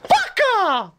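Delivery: squealing playful curse; high laughing outburst. Real, not acted. Joking outburst.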